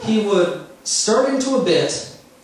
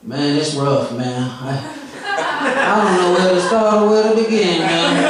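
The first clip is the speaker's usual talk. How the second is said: impression of stoned comic. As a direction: sink into a dazed, nodding-off junkie voice. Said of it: "I'm going to do his set for you right now, verbatim".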